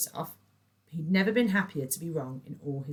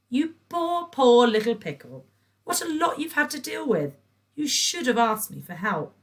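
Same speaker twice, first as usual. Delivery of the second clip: fake pity; 8 semitones higher, 8 dB louder than usual. A narrator's reading.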